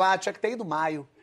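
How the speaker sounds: mock know-it-all raving about Paris in May; know-it-all traveller. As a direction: gush smugly, like you know better. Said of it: "Você encontra uma pessoa aqui que você fala".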